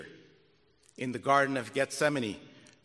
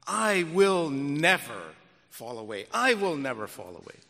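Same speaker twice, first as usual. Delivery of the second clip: Peter's boast; 6 semitones higher, 5 dB louder than usual. Acted. Peter boasting before the Lord, proud insistence. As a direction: insist you'll never fall.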